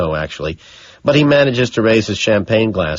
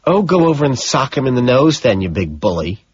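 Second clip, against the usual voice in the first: dismissive; 5 semitones higher than usual. Acted. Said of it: "she says, brushing me off".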